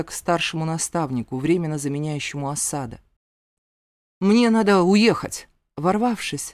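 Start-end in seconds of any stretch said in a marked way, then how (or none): 4.2-5.5 loud, urgent demand; hoarse urgent cry. A narrator's reading. Zane bursts in on the mentor, urgent loud rasp. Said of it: "без стука прохрипел я".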